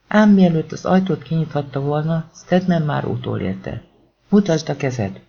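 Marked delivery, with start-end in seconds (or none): 4.3-5.2 shouted order. Acted. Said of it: "ordította mögötte egy felnőtt hang".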